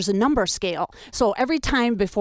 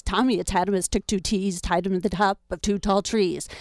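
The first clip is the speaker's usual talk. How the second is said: tongue twister. Shown as a demonstration. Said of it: "Sounds like this".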